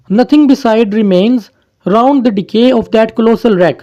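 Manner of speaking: very slow, solemn verse reading; slow poem recital. Shown as a demonstration. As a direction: let each word of the verse hang. Reciting the poem's closing lines.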